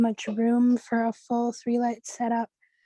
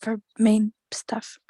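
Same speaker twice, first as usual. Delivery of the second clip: sore throat whisper; slower than usual. Real, not acted. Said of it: "it really hurts to talk".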